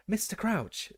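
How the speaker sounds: high, eager call; breathless. A narrator's reading. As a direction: gasp out his name in awe. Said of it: "said Percy breathlessly".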